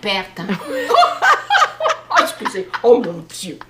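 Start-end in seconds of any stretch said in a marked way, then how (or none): 0.5-2.1 high, loud peal of laughter; real laughing fit; burst of laughter. Real, not acted. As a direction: let out a real shrieking laugh. Laughing at the convent joke.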